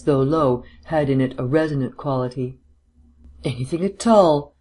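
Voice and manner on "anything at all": lightly lifted, untroubled answer; casual and obliging; easy reply. A narrator's reading. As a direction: answer easily, as if nothing bothers you. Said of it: "returned the other easily".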